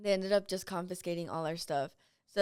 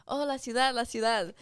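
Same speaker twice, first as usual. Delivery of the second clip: higher, sing-out mock alarm; imitated warning call; 3 semitones higher, 3 dB louder than usual. Kids' joking warning of confiscators.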